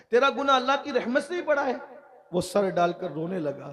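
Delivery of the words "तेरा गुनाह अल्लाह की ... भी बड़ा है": high, quick repeated question; incredulous question. Retold or imitated. Master questions sinner about God's mercy, incredulous high question. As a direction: raise the pitch and rush it in disbelief.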